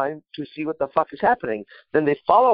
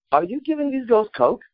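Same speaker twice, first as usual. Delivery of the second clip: dawning realization; 11 semitones higher than usual. Retold or imitated. Realization in story.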